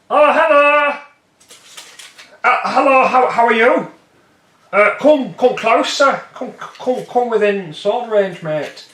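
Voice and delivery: high, loud mock-friendly taunt; taunting Briton. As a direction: lure them in with a cheery sneer. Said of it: "and go".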